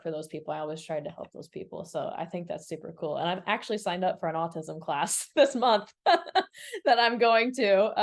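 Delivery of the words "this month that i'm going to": talking through a little laugh, slowed. Real, not acted. Host sharing her autism class plans, laughing. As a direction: chuckle while saying it.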